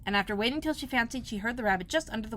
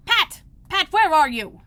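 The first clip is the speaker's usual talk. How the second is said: high, much louder angry call; angry shout; 9 semitones higher, 11 dB louder, slower than usual. A narrator's reading. Rabbit angrily shouting for his servant Pat. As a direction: yell for the servant. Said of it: "Next came an angry voice".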